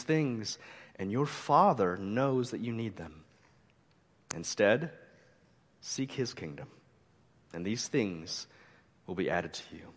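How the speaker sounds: measured, earnest Bible reading from the pulpit; scripture reading. Acted. Pastor reading Luke to the congregation, solemn reading voice.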